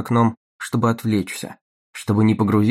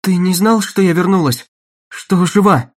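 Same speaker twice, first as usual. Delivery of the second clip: high, loud worried question; anxious; 8 semitones higher, 6 dB louder than usual. A narrator's reading. Dagny fears for Hank, anxious high question. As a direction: ask anxiously, voice lifted.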